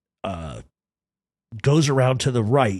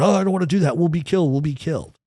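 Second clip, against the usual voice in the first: higher, panicky attorney voice, fading at the end; scared attorney; 6 semitones higher, faster than usual. Retold or imitated. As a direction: imitate the timid lawyer begging not to ram. Attorney's frightened reply.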